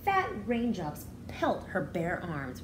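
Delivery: put-on reading a picture book aloud to children; expressive read-aloud for a class; storybook reading. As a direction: read it like story time for little kids. Teacher reads picture book aloud.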